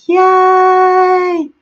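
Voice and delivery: high, loud little squeal; gleeful cheer for the group; excited yay. Real, not acted. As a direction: celebrate each name in the chat. Greeting fans in live chat.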